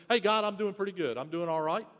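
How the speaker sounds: quick, casual, brushing it off; breezy self-assured. Retold or imitated. Believer tossing off a quick prayer, breezy and casual. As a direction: rattle it off, no time to stop. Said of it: "The first one is".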